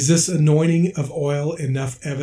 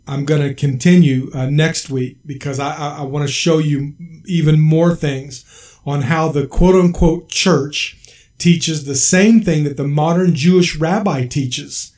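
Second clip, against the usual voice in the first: ordinary talk, nothing marked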